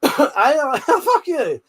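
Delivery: "fuck you" said through a laugh; laughing jab at the AI; laughing curse. Real, not acted. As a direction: swear at it while laughing.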